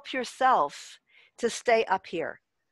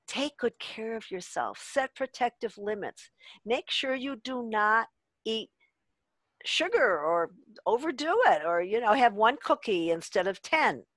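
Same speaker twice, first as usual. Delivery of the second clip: loving inner voice. Retold or imitated. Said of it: "we wanna hear a very loving voice".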